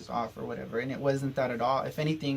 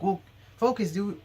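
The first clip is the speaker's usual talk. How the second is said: higher, louder mock scold; annoyed scolding; 6 semitones higher, 5 dB louder than usual. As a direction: snap at her to focus, imitating the aunt. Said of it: "she got mad at me".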